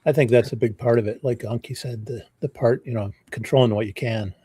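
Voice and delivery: hoarse, losing his voice. Real, not acted. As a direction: voice giving out, rough. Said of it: "Sorry, I'm losing my voice".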